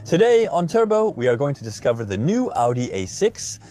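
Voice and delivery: bright, punchy car-show intro; voiceover announcer voice. Retold or imitated. Imitating a TV car-show host opening an episode. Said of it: "voices rising at the end of the sentence".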